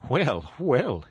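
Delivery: a hint of a chipper toad; Toad, good-natured. A narrator's reading. Toad answers, brightened up.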